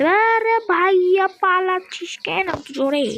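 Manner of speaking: slow, high call in Rajshahi dialect; drawn-out Rajshahi dialect call. Pretend. Teasing a fleeing villager in Rajshahi dialect. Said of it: "অনেক বেশি রাজশাহীর ভাষা এখন আমি জানি".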